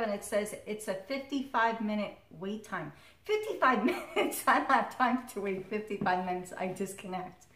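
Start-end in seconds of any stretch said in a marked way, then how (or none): 3.2-6.5 incredulous outrage. Retold or imitated. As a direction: scoff at the absurd wait. Outraged at hold time.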